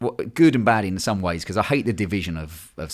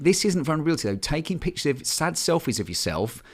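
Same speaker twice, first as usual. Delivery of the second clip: mock confused man; 7 semitones higher than usual. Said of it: "I was like".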